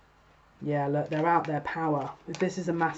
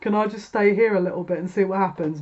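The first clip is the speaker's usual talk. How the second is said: whiny refusal; 4 dB louder than usual. Pretend. Stuck querent refusing the portal, whining. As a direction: sulk like a kid refusing to go. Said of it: "they're sat going".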